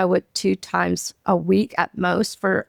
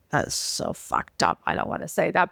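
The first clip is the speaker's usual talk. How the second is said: whispering; 6 semitones lower, 7 dB quieter than usual. Retold or imitated. Retelling her own reluctant reply.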